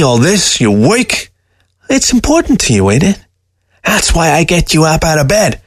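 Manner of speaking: high, mocking talking-fox voice; a scornful dead fox sneering at the man; sly fox voice. Taxidermy fox scoffing at the old man, high and sly.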